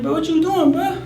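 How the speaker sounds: high, incredulous question; puzzled. Retold or imitated. Uncle puzzled at his nephew backing away, incredulous. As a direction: ask in amused disbelief. Nephew walking backwards laughing.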